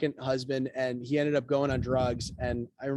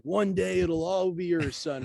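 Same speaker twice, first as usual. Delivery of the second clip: mock Mufasa; 2 semitones higher, slower than usual. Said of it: "this Simba Mufasa thing".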